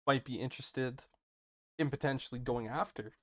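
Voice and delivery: talking through hiccups; hiccuping. Real, not acted. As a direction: speak while hiccuping. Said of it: "as I'm hiccuping here".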